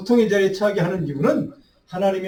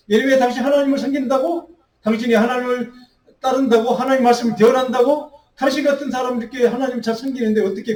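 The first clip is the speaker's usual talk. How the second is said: raised, jeering voice of scoffers taunting the prophet; mocking taunt; 4 semitones higher than usual. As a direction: needle him like a sneering crowd. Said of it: "라고 사람들에게 조롱을 받는".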